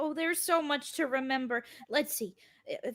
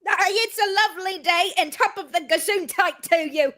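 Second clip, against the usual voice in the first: fake Irish accent; 2 semitones higher, 6 dB louder than usual. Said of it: "use a lot of Irish expressions".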